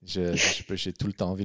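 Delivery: a hint of an Italian accent, mumbled low. Telling a friend about Rocco's documentary, in a light Italian accent. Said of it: "il te parle avec son accent italien".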